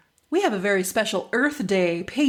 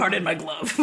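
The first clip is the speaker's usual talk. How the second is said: laughing mock posh; 5 semitones lower than usual. Joking mock-posh phrase.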